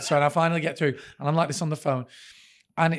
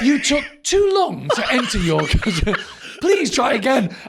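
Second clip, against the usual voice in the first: automated phone voice; 6 semitones higher, 5 dB louder than usual. Retold or imitated. Imitates automated phone line, laughing.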